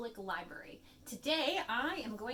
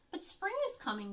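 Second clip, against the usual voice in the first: chirped; 7 semitones higher than usual. A narrator's reading. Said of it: "Bird chirped".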